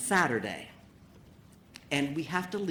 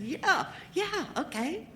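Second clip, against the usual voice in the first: sarcastic yeah; slower than usual. Retold or imitated. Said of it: "I said".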